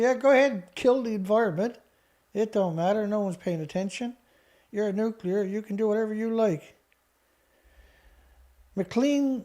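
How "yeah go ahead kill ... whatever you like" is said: mock dismissive commission. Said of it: "Canadian Nuclear Safety Commission just said".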